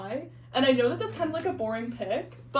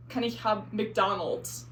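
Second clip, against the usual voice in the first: put-on German accent; slower than usual. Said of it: "I'm speaking in German".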